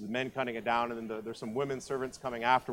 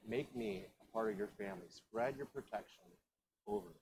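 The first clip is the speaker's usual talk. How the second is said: humble plea; 3 semitones lower, 10 dB quieter than usual. Acted. Ruth's humble quiet plea.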